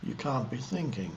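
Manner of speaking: halting, spacious delivery with lengthy pauses mid-sentence; meditative gaps. Shown as a demonstration. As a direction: leave long silences between short phrases. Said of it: "small gaps between words as I talk".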